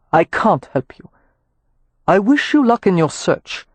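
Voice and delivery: a hint of a smooth male voice; lightly voiced Rowan. Rowan greeting Amelia, lightly voiced courteous man.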